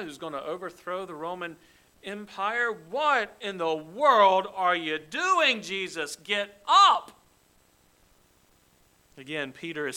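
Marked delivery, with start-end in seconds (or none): 2.7-7.1 loud, slow outraged rebuke; indignant protest. Acted. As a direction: scold him to get up. Peter protests Jesus washing feet.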